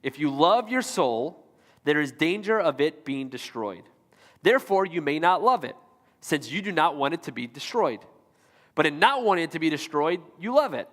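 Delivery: slow, careful quote reading for a confused audience. Real, not acted. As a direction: read slowly, pausing between phrases. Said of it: "I'm gonna read it slow".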